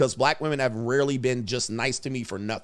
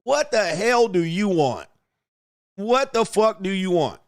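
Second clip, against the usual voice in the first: slow suspicious snap; 5 semitones higher, slower than usual. Retold or imitated. Comedian snaps back at a flirting woman, hostile. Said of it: "that's how I be acting".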